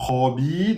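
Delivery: khabi with a heavy, emphatic kha. Shown as a demonstration. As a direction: give khabi a thick back-of-the-throat kha. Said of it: "Donc la kha emphatique".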